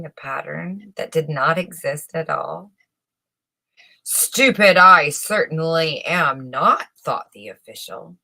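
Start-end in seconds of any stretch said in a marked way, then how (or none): 4.0-6.9 louder, firm denial; a touch of offended pride; indignant insistence. Acted. Official insists to himself.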